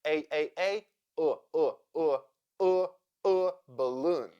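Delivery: A repeated, then UH repeated, into balloon; schwa drill. Shown as a demonstration. Teacher drilling the unstressed first syllable of balloon, schwa drill. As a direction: drill A turning into a neutral UH before balloon. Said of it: "A sounds like uh".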